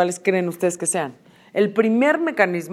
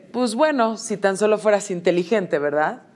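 mock passive-aggressive dig; pasivo agresivo. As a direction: slip the insult in lightly, softening at the end. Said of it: "pasivos agresivos que están explotando". (indirecta pasivo-agresiva fingida)

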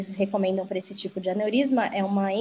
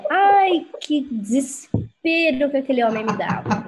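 exasperated; 3 semitones higher than usual. Real, not acted. Telling the host how the slow doctor drove her mad, exasperated. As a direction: groan it out, half laughing.

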